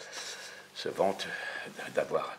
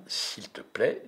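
calm; 3 semitones higher, much slower than usual. Acted. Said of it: "de façon modérée".

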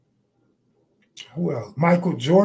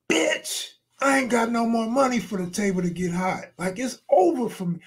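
pitched-up, exasperated imagined comeback; retold exasperation; 5 semitones higher than usual. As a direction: act out the fed-up retort you held back. Imagined angry retort at craps table.

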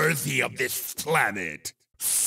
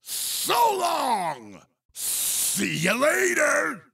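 taunting call; 4 semitones higher than usual. Acted. Game character taunts while passing.

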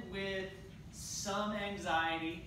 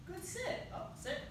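high praise; 11 semitones higher, 4 dB quieter than usual. Real, not acted. Praising dog for sitting.

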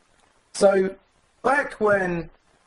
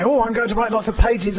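mock excitement; 8 semitones higher than usual. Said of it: "very excitedly and enthusiastically and say".

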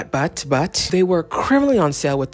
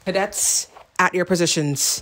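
drill sergeant; 3 semitones higher than usual. Pretend. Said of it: "I'm literally a drill sergeant".

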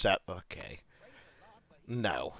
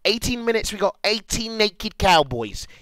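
excited, raised pitch; hyping the crowd; 6 semitones higher than usual. Real, not acted. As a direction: keep rallying the viewers. Hyping up viewers for content.

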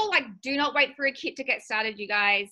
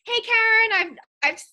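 upline's friendly pitch. Retold or imitated. Upline reaching out to recruit her friend, retold pitch. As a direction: imitate a friend's eager opener, settling into casual chat. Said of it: "she was like".

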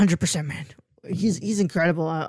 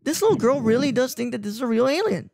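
awed viewer; 5 semitones higher than usual. Retold or imitated. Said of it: "you really do feel like".

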